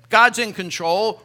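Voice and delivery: loud, slow, confident assurance; confident contentment. Pretend. Contentment personified answering worry, loud and sure. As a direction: declare it calmly and firmly.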